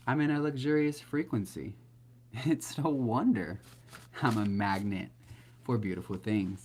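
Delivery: beaming affirmation, slowing on no wonder; heartfelt affirmation. Shown as a demonstration. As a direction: say it like a joyful talk with God. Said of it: "You gotta say it like that".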